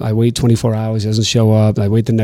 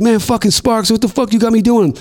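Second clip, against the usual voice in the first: higher, exasperated mock whine; imitating exasperated K Slade; 8 semitones higher than usual. K Slade complaining to Sparks, higher exasperated voice. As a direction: whine at your friend, pitched up.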